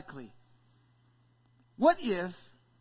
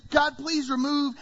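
pleading prayer; 6 semitones higher, 5 dB louder than usual. Acted. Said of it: "when we go and say".

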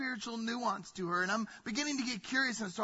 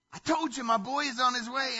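smiling proud father; 4 semitones higher, 5 dB louder than usual. Acted. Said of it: "God is still smiling".

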